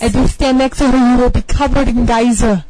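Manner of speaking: loud, dramatic ad-man voice; announcer voice. Pretend. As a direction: sell it like a TV ad. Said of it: "I went into the voice again".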